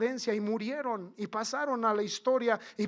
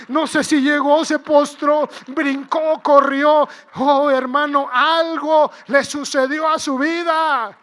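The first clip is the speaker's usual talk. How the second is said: very loud, raised-pitch fervent preaching; preaching at full force; 5 semitones higher, 12 dB louder than usual. Real, not acted. Preacher marvelling at the healed leper, shouting. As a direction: proclaim it at full volume.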